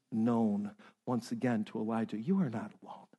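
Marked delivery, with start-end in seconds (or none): 2.2-3.1 low, soft reassurance; God's quiet voice, spoken low and gently. Acted. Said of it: "just this quiet voice".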